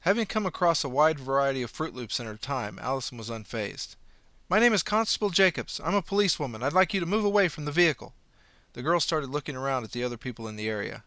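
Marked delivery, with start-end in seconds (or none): 4.5-8.1 higher, louder official police voice; stern constable announcing herself; firm police authority, pitched up; policewoman's voice. Acted. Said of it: "her best policewoman's voice".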